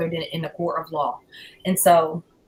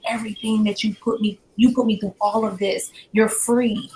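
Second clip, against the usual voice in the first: retold motherly confrontation, pitched higher; exasperated questioning; 5 semitones higher, faster than usual. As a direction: press him with rapid, higher-pitched questions. Retells confronting her son, pleading questions.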